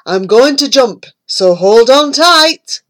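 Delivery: a hint of a vain toad; lightly voiced boastful toad. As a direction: show off proudly. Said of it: "he said".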